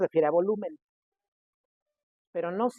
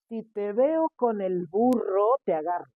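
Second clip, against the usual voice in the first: a hint of a stern parent, slower at first; parent warning; 2 semitones higher, 4 dB louder than usual. Parents warning the kids at home, mild stern. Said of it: "era lo que nos decían".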